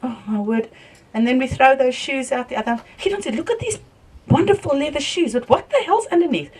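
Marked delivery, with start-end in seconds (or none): 3.4-6.5 high mock quote. Husband shows off his shoes.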